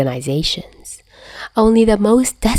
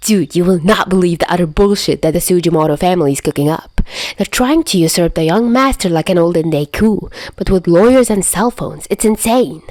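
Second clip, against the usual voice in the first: rapid-fire chatter. Acted. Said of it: "speaking a mile a minute".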